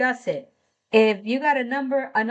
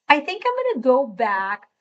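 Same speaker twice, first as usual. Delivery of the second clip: slightly high, lilting voice; high-pitched; 3 semitones higher than usual. Real, not acted. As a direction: let the pitch jump up mid-phrase. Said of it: "I said that in quite the high-pitched voice".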